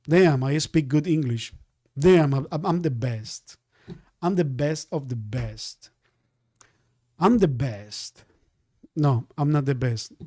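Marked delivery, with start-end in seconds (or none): 0.1-5.9 mock bragging. Trader brags about his English, lower mock boast. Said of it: "That's not the way I talk". 7.2-8.2 mock bragging. Trader jokes he is the best, lower smug boast. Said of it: "That's not the way I talk".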